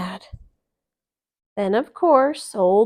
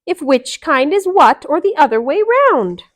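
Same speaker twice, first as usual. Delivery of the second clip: frowning; 6 semitones higher, 9 dB louder than usual. Acted. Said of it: "they all frowned".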